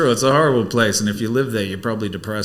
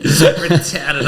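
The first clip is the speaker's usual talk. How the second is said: loud Boston accent, r dropped; 3 semitones higher, 6 dB louder than usual. Shown as a demonstration. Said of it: "I have to say it like that".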